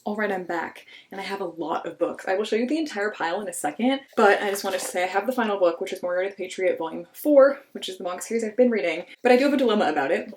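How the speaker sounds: breathless after running upstairs; winded, catching breath. Real, not acted. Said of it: "Sorry, I'm out of breath, I just ran upstairs".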